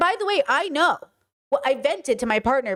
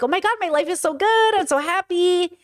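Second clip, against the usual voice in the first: higher-pitched gushing about a perfect life; mock-dreamy happiness, pitched up; blissfully happy; 6 semitones higher than usual. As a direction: gush it in a high, naive happy voice. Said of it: "especially if you really believe".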